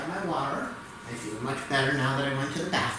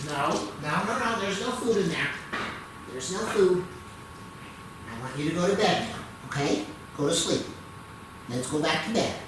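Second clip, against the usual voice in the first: higher coaxing pet talk; 4 semitones higher than usual. Real, not acted. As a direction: gently shoo her to bed. Dog wants more food.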